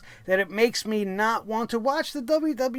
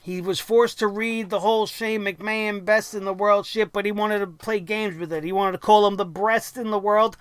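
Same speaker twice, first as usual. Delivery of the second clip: normal talking voice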